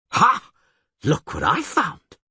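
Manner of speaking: put-on high, eager, excitable young bard; excited bard voice. Dandelion marvels at the huge catfish, high and excited.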